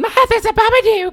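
put-on high, loud kid calling for Mom; shrieky mock little-boy alarm; child yelling. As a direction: burst in shouting like a frightened child. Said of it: "the kid comes running in and".

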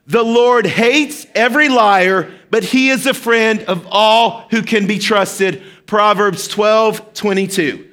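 slow, deliberate group recitation. Shown as a demonstration. Pastor leading the congregation in a slow, emphatic verse recitation. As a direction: lead the church through it word by word. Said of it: "So let's do this together".

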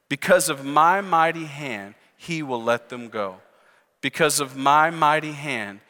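slow, measured verse recitation, dropping low at phrase ends; leading group recitation. Real, not acted. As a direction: lead the room through the verse phrase by phrase. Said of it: "Say it with me".

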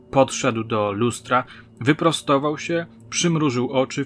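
ordinary delivery, nothing marked

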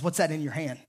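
quiet voice of God. Acted. God's voice, quiet.

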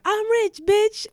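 high, loud imitated shriek of joy; hammed-up gleeful yell; mock ecstatic cry. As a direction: squeal it like you just won the lottery. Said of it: "Sis dropped to her knees and was like".

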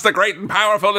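high-pitched wrestling introduction; entrance announcer. Retold or imitated. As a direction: proclaim it like a ring herald. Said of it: "and someone is like".

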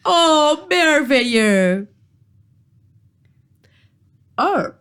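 put-on lightly British-accented genteel troll; fussy gentleman troll in mock British-accented French. Troll counts the lone adventurer, lightly British accent. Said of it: "charmant accent britannique".

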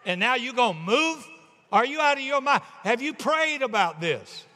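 high, indignant questioning; incredulous wife. Acted. Wife objecting to husband's sudden move, incredulous. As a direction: challenge him in disbelief, pitch up.

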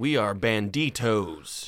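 put-on slow Spanish accent bandit; a bandit boasting in a slow Spanish accent. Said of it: "that's my Spanish accent".

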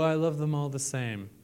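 soft unvoiced whisper. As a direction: let it slip as a secret aside. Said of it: "Every parent's gonna go".

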